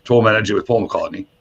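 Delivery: lightly imitated English accent. English tour manager phoning the DJ, imitated English accent. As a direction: put on a polite English accent. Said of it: "a man on the phone had an English accent".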